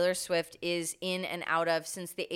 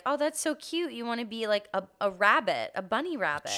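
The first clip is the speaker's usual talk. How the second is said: imitating dad; 4 semitones higher than usual. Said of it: "he was like".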